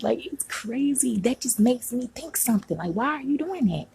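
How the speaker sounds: real frustration, pitch riding high; exasperated venting. Real, not acted. Venting about boyfriend taking money back.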